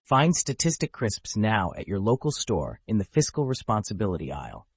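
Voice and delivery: upbeat retro commercial read; chipper 1950s ad. Acted. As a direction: sell it like an old TV ad. Podcast ad segment.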